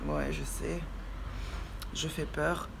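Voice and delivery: rough morning voice; gravelly just-woke-up voice; vocal fry. Real, not acted. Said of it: "ma voix du matin qui est un peu rock".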